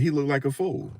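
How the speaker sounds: high mocking voice, far from his own; mocking onlookers. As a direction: mimic people laughing at him. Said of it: "Y'all gonna be like".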